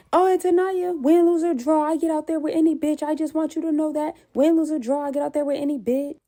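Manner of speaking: mock tough boast. Opponent's pre-fight boast.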